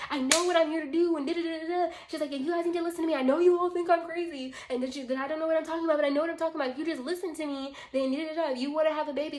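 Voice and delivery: imitating an agitated rant, high-pitched; pushy mock rant, pitch held high; aggressive. Woman insisting she knows what she's doing, aggressive. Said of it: "this time she's, like, getting aggressive".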